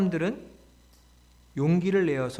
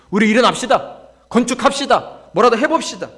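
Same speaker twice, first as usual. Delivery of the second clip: high, loud call to action; acted crowd shouting with fresh resolve; energized rallying cry; 8 semitones higher, 9 dB louder than usual. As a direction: punch each exhortation like a chant leader. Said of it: "백성들이 막 힘을 냅니다".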